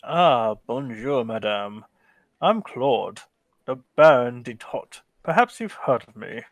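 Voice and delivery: lightly voiced French nobleman, courtly; French baron. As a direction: greet the lady with smug charm.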